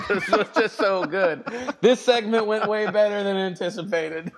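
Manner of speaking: breathless from laughing, still giggling; after laughing hard. Real, not acted. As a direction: talk through leftover laughter. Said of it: "my mouth hurts from laughing".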